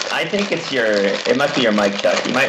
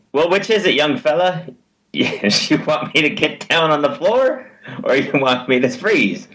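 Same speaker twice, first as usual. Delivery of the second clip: movie quote voice; 4 semitones higher than usual. Retold or imitated. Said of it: "classic movie line".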